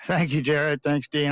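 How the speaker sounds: panting between words after the race; breathless, still catching air; out of breath. Real, not acted. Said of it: "I'm still panting".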